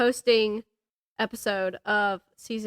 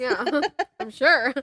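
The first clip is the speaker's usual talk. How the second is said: talking while eating an apple; chewing between words; mouth full; slower than usual. Real, not acted. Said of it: "I hope you can't hear me crunching my apple".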